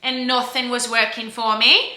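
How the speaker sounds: Northern English accent. Real, not acted. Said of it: "I don't know why I do this, like, Northern English accent".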